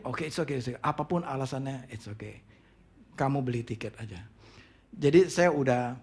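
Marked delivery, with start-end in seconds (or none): 0.1-4.2 low, quiet acted calm; subdued fatherly comforting; restrained reassurance. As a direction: soothe him, keeping your temper in check. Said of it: "saya coba tahan emosi saya".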